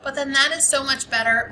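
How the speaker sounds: excited. Shown as a demonstration. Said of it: "exclamation point after that".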